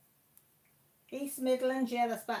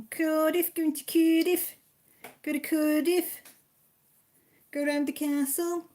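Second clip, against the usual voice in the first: excited; 8 semitones higher, 9 dB louder than usual. Real, not acted. Friend off to Cardiff in caravan.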